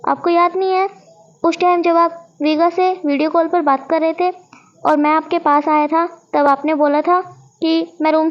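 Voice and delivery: excited accusation. Acted. Shao exposes Wangji's lie in front of everyone, excited. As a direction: spill the secret eagerly, accusing.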